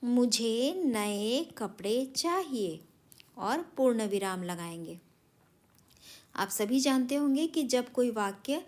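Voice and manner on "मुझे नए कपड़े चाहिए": corrected sentence said slowly; teacher reads the corrected sentence slowly; slow correct reading. Shown as a demonstration. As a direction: read the fixed sentence slow and clear. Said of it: "यानी वाक्य बन गया".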